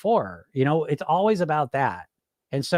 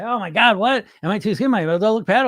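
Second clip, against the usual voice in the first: mock worried dieter; 5 semitones higher, 3 dB louder than usual. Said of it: "They say".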